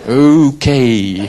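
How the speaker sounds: loud, laughing okay. Retold or imitated. After the worship leader says she heard, loud laughing okay. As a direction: laugh it out in sheepish surprise.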